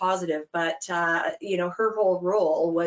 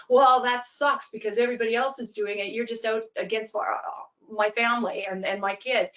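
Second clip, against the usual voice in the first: a hint of a whiny parent pushing back; lightly voiced parent protesting unfairness; arguing parent; 3 semitones higher than usual. Parent blaming the coach, mild mock complaint.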